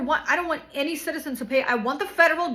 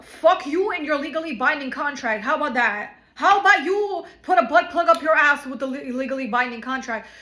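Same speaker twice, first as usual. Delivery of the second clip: angry retort; 5 dB louder than usual. Real, not acted. Furious comeback to the lawyer.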